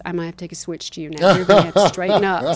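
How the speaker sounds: mock stern mom threat; threatening mother. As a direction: scold a stubborn child, quick and firm. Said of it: "my mother had to threaten".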